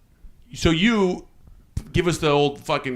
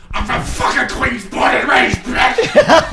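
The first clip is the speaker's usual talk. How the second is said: high, loud Queens tough guy, rising to a shout; hammed-up Queens shout; mock Queens tough-guy yell; 10 semitones higher, 4 dB louder, slower than usual. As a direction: bark it like an angry New Yorker. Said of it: "you said".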